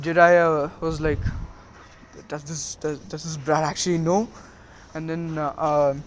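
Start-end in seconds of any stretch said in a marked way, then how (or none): 2.3-4.3 soft, wondering aside, much softer; muttered to himself. Retold or imitated. Jiraiya wondering about Naruto, a soft private mutter. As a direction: Jiraiya thinks aloud under his breath.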